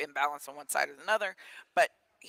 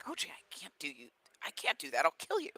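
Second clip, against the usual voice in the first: worried protest. Retold or imitated. Player refusing to lift his coach, worried protest. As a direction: imitate a player balking, pitch leaping on the last words.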